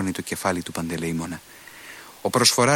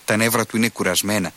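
usual speaking voice

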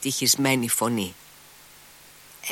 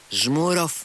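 put-on lightly raised call to a boy; 5 semitones higher than usual. A narrator's reading. Kolya calling to Smurov, lightly raised call. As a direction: call his name across the room. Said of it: "και φώναξε στον Σμούροφ".

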